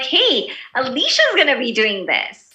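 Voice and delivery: brighter, lifted "Hey, Alicia's"; excited. Shown as a demonstration. Teacher demos genuine excitement about Alicia's plans, upbeat. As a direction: sound glad for Alicia. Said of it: "it shows that I have excitement".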